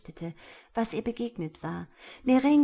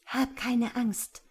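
slow, higher-pitched soothing; gently drawn-out reassurance; reassuring; 5 semitones higher, slower than usual. A narrator's reading. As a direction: take your time and calm the frightened listener. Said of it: "sie zu beruhigen".

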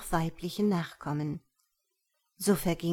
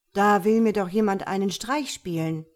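put-on louder, irritated young man; annoyed; 5 dB louder than usual. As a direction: grumble it, sure someone is fooling him. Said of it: "sagte Bahadir verärgert". (verärgert und lauter, als ob ihn jemand foppt)

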